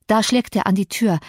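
plain reading voice

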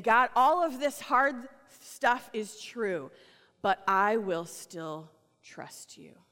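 slow, earnest resolve; sincere prayer. Acted. A believer telling God they still trust, slow and sincere. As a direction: pray it slowly and mean it.

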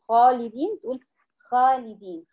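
خالدين with a thin, unpressed خ; thin khaa in خالدين. Shown as a demonstration. Teacher imitating a student's wrong reading, thin khaa. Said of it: "هي كده ما ضغطتش فوق".

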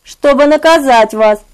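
high, eerie hushed menace; quiet whisper. Acted. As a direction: breathe the threat softly. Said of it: "раздался тихий шёпот".

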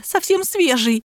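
slow, high plaintive whine; sobbing. A narrator's reading. Barbie describing the ten-hour-old, high tearful drawl. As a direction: draw it out in a mock tearful voice. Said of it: "всхлипнула Барби".

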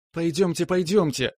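excited high-pitched urging; squealing. A narrator's reading. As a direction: squeak it out impatiently. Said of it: "запищала Маша".

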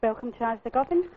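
recorded automated greeting; even, polished menu announcer read; phone menu voice. Real, not acted.

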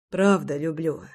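slightly husky, understated confession; hoarse exhale. A narrator's reading. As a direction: let it out on a lightly hoarse breath. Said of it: "хрипло выдохнул". (с лёгкой хрипотцой, на выдохе)

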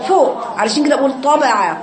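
طبع with the voice pushed up to the palate; lifted emphatic ṭa. Shown as a demonstration. Teacher shows the girls where the sound sits. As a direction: say طبع with the whole sound up top. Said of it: "الصوت كله فين؟".

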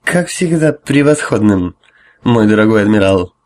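put-on a touch of drunken smugness; drunk smirk. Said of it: "Жрец пьяно ухмыльнулся".

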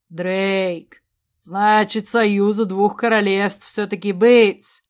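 slow, weighty satisfaction; a touch of a contented king; pleased. A narrator's reading. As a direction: muse on it with a smile, drawing it out. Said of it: "улыбнулся Дроссарин".

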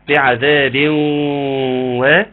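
slow chanted Quran recitation; tajweed recitation. Shown as a demonstration. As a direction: recite the verse slowly, drawing out the vowels. Recites the verse again. (تلاوة مجودة بطيئة)

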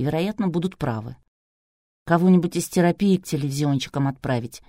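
ordinary delivery, nothing marked

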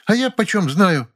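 высокий, медленный сварливый голос домработницы; огрызнуться на хозяйку; сварливо огрызается. A narrator's reading. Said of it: "сварливо огрызнулась та". (домработница огрызается, сварливо)

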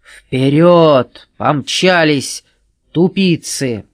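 loud barked commands. A narrator's reading. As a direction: bark them off. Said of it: "гаркнул".

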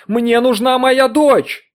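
very high, loud, slow shriek. Acted. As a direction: shriek the demand at her husband. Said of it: "голос перешёл в визг". (пронзительный визг, очень громко)

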